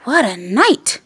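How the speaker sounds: high bird voice rising on storm; twittering wren. Acted. Wren chatters about the storm, high and twittery. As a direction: chirp it like a little wren. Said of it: "twitters wren".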